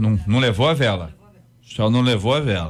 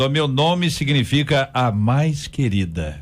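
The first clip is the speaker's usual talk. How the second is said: proud tone; 2 semitones higher, slower than usual. Retold or imitated. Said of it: "até a voz muda".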